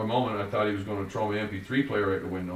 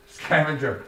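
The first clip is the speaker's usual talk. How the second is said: higher, louder Joey repeating the word; amused Joey; 6 semitones higher, 6 dB louder, slower than usual. A narrator's reading. Joey repeating the narrator's word, lightly amused. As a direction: toss the word back, amused.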